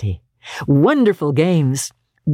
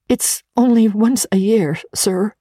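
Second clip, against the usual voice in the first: pleading; 7 semitones higher than usual. A narrator's reading. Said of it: "pleaded Bob".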